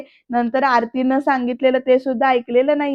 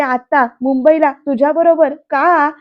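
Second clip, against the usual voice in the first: louder, protesting disbelief; retold outburst; 6 dB louder than usual. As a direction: push back indignantly, a bit louder. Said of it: "असं म्हणून ओरडते". (चिडून मोठ्याने विचारलेला प्रश्न)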